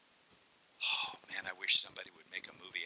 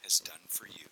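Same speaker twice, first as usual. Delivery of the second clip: hushed testimony; 4 dB louder than usual. Acted. Husband telling softly of Jesus.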